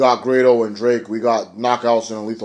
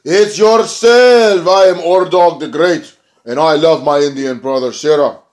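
higher, louder, slow hammed-up wrestler voice; big slow mock villain boast; booming mock Ordog; 5 semitones higher, 6 dB louder, slower than usual. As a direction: announce yourself like a masked heel, hammed up. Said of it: "Ordog says".

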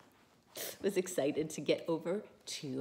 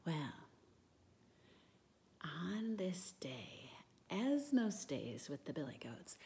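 whispered storytelling; 4 dB quieter than usual. Real, not acted. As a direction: breathe the story gently to the little ones.

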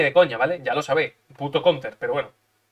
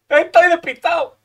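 silly voice; 13 semitones higher, 9 dB louder, slower than usual. Pretend. Gamer jokes after missing the move.

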